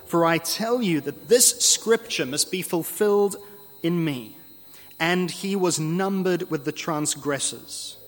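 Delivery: measured, firmly weighted scripture quote; emphatic. Acted. Jesus telling apostles scripture must be fulfilled, emphatic. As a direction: lean on the key words with mild insistence. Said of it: "And Jesus is emphatic".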